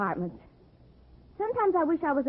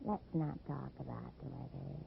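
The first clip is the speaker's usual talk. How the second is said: soft coaxing; 8 semitones lower, 15 dB quieter than usual. Acted. Seductive hint, changing subject.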